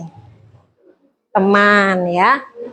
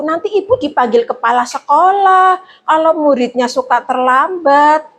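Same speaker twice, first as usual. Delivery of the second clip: guilt-tripping; 3 semitones higher than usual. Shown as a demonstration. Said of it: "ngomongnya seperti ini".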